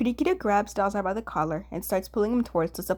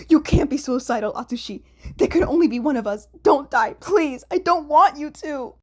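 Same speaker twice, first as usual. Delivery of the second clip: louder, higher desperate pleading; pleading loudly; 6 semitones higher, 7 dB louder than usual. Acted. Dazai gripping Atsushi's shoulders, loud desperate pleading. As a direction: beg him not to die.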